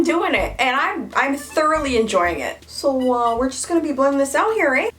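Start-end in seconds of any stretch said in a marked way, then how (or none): 2.7-4.9 quick, playful mock-Canadian; friendly Canadian with a tossed-on "eh"; Canadian accent. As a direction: put on a folksy Canadian accent. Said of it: "doing this Canadian accent".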